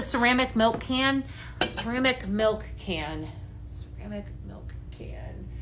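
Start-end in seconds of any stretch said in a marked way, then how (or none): 3.6-5.5 whisper. Real, not acted. Repeats it to herself searching.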